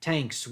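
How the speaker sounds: TANKS for "thanks", drawn out slowly. Shown as a demonstration. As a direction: say TANKS with a hard Philadelphia T. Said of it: "We don't, we don't say the".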